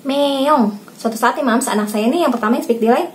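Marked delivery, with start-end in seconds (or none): 0.1-0.9 higher-pitched "meong" cat call; imitated cat meow. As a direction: demonstrate a cat's meow for a child. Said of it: "Kalau ada kucing suara gimana". (tiruan suara kucing mengeong)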